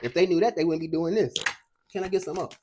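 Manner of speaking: winded and gasping slightly; talking while short of breath. Real, not acted. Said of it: "I just got out of breath right now".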